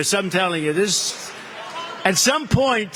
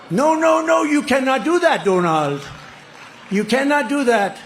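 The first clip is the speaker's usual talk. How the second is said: mock French accent, pleading; 4 semitones higher than usual. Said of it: "His attempt at a French accent".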